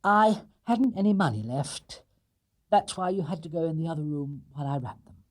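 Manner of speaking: put-on a young bear explaining himself; small bear voice. Paddington explains to family.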